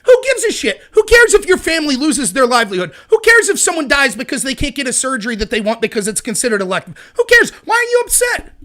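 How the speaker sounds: sarcastic shrug with swooping pitch; exaggerated who-cares act; mocking indifference. Mocking people who shrug off lockdowns.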